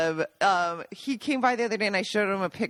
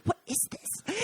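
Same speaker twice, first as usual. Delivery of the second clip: whispered, puzzled disdain; scornful whisper; 11 semitones higher, 8 dB quieter, slower than usual. Retold or imitated. Gaji eyeing the puffy dog treats, whispered scorn. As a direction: breathe it out like it's ridiculous. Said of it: "he looks at me and he goes".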